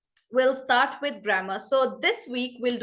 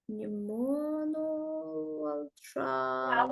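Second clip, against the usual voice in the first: British pronunciation; 4 semitones higher, 7 dB quieter, slower than usual. Shown as a demonstration. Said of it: "a British person would pronounce this as".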